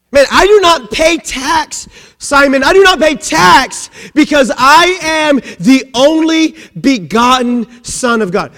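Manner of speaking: tag. Acted. Jesus protests the tax to Simon.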